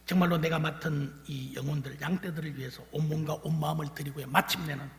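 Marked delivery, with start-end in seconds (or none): none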